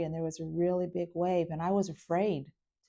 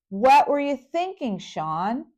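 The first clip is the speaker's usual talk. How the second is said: higher, louder mock scold; retold scolding; 6 semitones higher, 6 dB louder, slower than usual. Sister scolding brother on the phone, mock anger. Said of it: "and I go".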